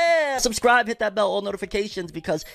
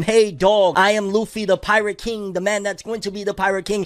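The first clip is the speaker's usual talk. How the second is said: Luffy voice; 5 semitones higher than usual. Retold or imitated. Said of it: "imagine Luffy went from".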